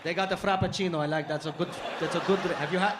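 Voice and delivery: put-on Arab accent, hospitable; hospitable cousin. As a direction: offer food in an Arab accent. Cousin offering food.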